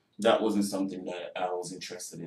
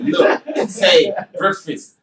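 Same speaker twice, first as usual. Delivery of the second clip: loud, high and slow retold yell; mock crew shout; 9 semitones higher, 12 dB louder, much slower than usual. Actor imitating the crew shouting at him on set. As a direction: bark the order like an impatient director. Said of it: "They were like".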